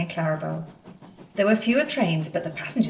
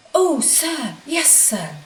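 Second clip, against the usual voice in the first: much higher, eager and quick; eager little engine; 9 semitones higher, much slower than usual. A narrator's reading. Percy answering the Fat Controller, eager and high. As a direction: bounce with eagerness to please.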